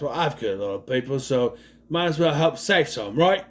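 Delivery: a bad, lightly done British accent; a hint of British, badly faked; terrible British accent. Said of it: "that's a terrible accent".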